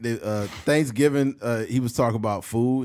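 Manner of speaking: ordinary talk, nothing marked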